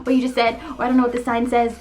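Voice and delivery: playfully flustered plea for a moment; flustered stalling. Acted. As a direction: act put on the spot and scrambling. Acting flustered, stalling for time.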